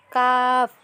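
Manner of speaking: light কাফ from further forward, drawn out slowly; Arabic letter demo. Shown as a demonstration. Teacher contrasting a light কাফ with the heavy কপ. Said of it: "তার থেকে একটু এগিয়ে আসতে হবে".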